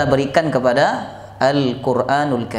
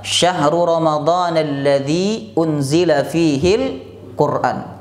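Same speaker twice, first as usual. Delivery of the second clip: slowed, measured Arabic verse reading; Quran verse read out; slower than usual. Shown as a demonstration. Preacher quoting the verse to his congregation, lightly intoned. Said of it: "Allah berfirman".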